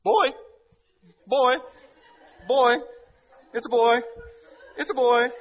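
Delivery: loud, high acted celebration; re-enacted whoop of a thrilled father; excited shouting. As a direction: yell the news in separate jubilant bursts. Retold father celebrating news.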